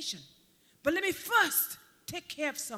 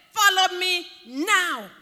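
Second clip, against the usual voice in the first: urgent command; 4 semitones higher, 10 dB louder, slower than usual. Shown as a demonstration. Preacher urging hearers, loud and drawn out. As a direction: follow me now, much louder and slow. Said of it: "Implication is now".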